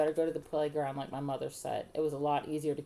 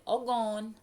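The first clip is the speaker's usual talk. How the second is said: put-on high little-boy report; toddler voice; 6 semitones higher, 3 dB louder than usual. A narrator's reading. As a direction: say it plaintively like a small child. Hurt toddler telling his mother.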